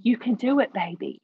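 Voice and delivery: put-on mildly lifted cheer, easing down on "baby"; retold fatherly encouragement. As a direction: encourage without shouting. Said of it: "running up and down the banks of their life saying".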